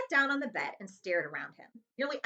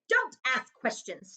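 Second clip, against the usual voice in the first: slow, sharp, louder order; snapped; 3 semitones higher, 4 dB louder, slower than usual. Acted. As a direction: cut the boy off. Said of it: "snapped his uncle".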